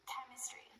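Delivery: "Chemistry" with CHEM stressed, the rest light; stress on first syllable. Shown as a demonstration. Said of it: "stress is almost always on the first syllable".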